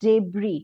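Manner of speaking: debris as deb-REE, the s silent; model pronunciation. Shown as a demonstration. Teacher shows the silent S in debris. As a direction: say debris with no S sound at the end. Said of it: "word हमारा pronounce होगा कैसे".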